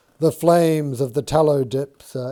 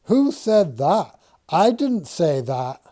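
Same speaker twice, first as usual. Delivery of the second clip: flustered denial; 5 semitones higher, 5 dB louder than usual. Acted. Dixon denies, flustered.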